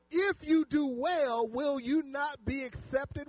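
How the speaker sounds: loud, slow, emphatic verse; preacher declaiming a Bible question; scripture reading. Acted. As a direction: ring the question out slowly to the congregation. Reads scripture aloud to congregation.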